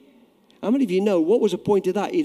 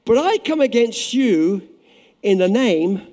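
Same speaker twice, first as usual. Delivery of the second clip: bold defiant David; 5 semitones higher, 3 dB louder, slower than usual. Acted. David defying Goliath, preached loud.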